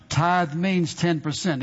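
slow, each word laid down firmly; deliberate slow correction; slow emphatic. Retold or imitated. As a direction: spell it out like a rule. Preacher correcting the man.

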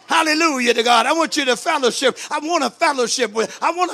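loud, ringing hallelujah; preacher rejoicing before the congregation, loud; exultant preaching. Real, not acted. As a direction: lift the church with joy.

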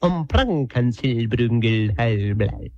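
rattled-off nonsense with a heavy put-on accent; comic gibberish tirade, slowing at the end; mock German gibberish. Conductor opens his act, mock German gibberish.

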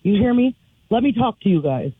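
lightly voiced wrestler promo, mostly own voice; a hint of cocky champion bragging; wrestler trash talk. Caller playing a wrestler for a radio contest, lightly hyped. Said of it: "You're Kat".

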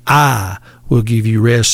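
"I" set apart and stressed; emphatic stress on I. Retold or imitated. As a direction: lean firmly on the word "I". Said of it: "He's saying that emphatically".

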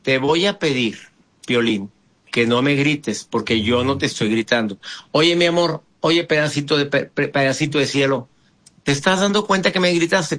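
low, steady, gentle asking; calm request. Shown as a demonstration. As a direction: soothe the partner while setting a limit. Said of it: "pídele".

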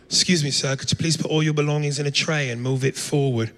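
put-on polite British airport security accent; prim London English request. Comic to the crowd, a British guard's polite request in accent. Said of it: "they all had British accents".

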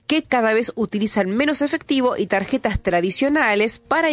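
measured radio news reading. Acted. Radio host reads a fintech report to listeners, news read.

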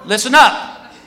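mock public announcement; announcing to the line. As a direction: address a whole security line. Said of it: "he goes to this whole security line".

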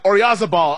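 Oyarzabal as British announcers say it, with a buzzing z. Retold or imitated. Host mimics British announcers, Oyarzabal with a hard z. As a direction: voice the z in Oyarzabal, English style. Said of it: "British announcers are like".

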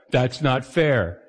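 put-on That's not fair, slow and stretched like a sulky kid; drawn-out childish whine. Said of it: "As a kid, I was thinking about being fair".

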